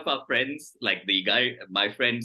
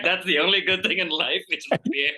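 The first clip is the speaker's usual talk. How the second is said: mock sincere; 5 semitones higher than usual. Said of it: "I'm just gonna be like".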